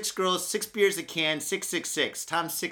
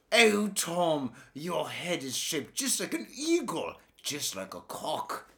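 bad British accent; 3 dB quieter, slower than usual. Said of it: "I have the worst U K accent ever".

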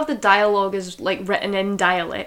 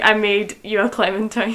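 French-tinged delivery; 4 dB louder than usual. Retold or imitated. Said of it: "is so French".

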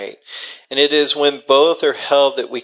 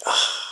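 breathy, voiceless ah; retold sigh; 5 dB quieter than usual. Retelling her realization about fear of being wrong, sighed ah. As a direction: let out a soft, airy sigh.

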